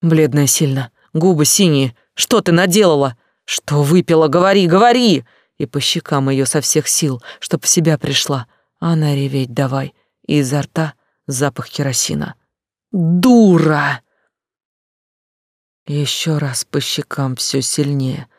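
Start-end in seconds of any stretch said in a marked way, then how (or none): 2.1-5.2 louder, urgent questioning; louder demand at the pale girl; demanding shout. A narrator's reading. Demanding what the girl drank. 12.9-14.0 louder, furious; louder angry outburst while slapping; angry shout. A narrator's reading. Slapping the girl.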